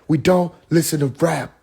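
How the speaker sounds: a hint of a lady lecturing about rap; mild mock of her earnest tone; imitating Tyba Jet. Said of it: "She was like".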